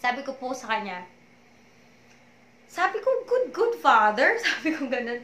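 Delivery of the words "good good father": slow, tight, near tears; tearful prayer. Retold or imitated. Praying to the Lord on the verge of tears. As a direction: hold back the tears on each word. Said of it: "Talaga pong umiyak ako that time".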